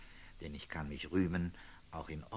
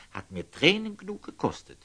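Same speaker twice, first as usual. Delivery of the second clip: emotional lament; 11 semitones higher, 7 dB louder, faster than usual. Acted. Friar's heartfelt lament.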